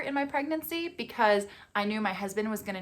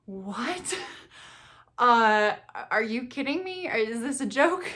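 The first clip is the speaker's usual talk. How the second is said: stunned disbelief; 3 semitones higher, slower than usual. Retold or imitated. Mother hearing of a second heartbeat, stunned disbelief. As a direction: act out being floored, rising into questions.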